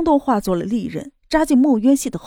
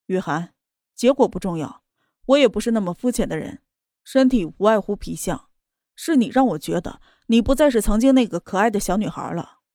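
cold. Acted. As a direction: speak coldly, keeping distance. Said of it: "他冷冷地说道".

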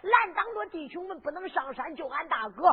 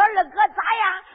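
louder, excited cry; triumphant boast; 2 semitones higher, 7 dB louder than usual. Acted. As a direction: crow over the victory. Excited hero reports his kill. (得意地高喊)

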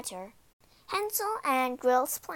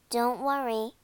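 brave. Acted. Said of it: "sounding braver than she felt".

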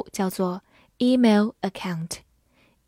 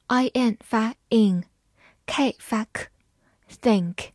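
slow sound-by-sound breakdown; slow phonics demo; much slower than usual. Shown as a demonstration. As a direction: sound out each part slowly.

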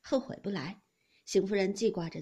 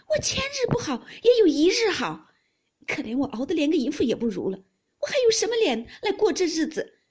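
loud, high-pitched wronged wail; anguished wife crying out her grievance; tearful outburst; 6 semitones higher, 9 dB louder than usual. A narrator's reading. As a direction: rail bitterly, building toward tears. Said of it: "说着又哭了".

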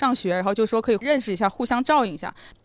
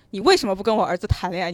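mild mock yell; 5 dB louder, faster than usual. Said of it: "很大声地吼".

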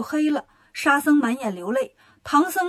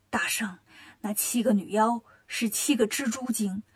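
soft, low Earth God voice; 土地公公; 4 semitones lower, 6 dB quieter than usual. Acted. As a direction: answer the Great Sage in a hushed low voice. 土地公公向大圣解释. (土地公公压低嗓音)

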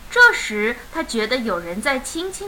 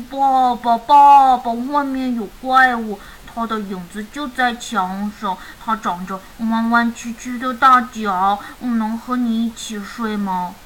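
worried eldest cub. Acted. Eldest son tells dad of monster shadow, mildly frightened plea. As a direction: call out, then settle into a worried plea.

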